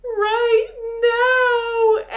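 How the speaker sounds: high, loud, crying out; pained reply to the neighbor, high and loud with a cry; pained answer. Retold or imitated. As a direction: cry it out mid-contraction. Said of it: "And I say".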